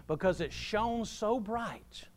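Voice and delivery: slow, hushed whisper of wonder; whispered slowly, as if the glory is too bright to speak of; awed whisper. Acted. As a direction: breathe it out in awe. Awed hush while telling of glory.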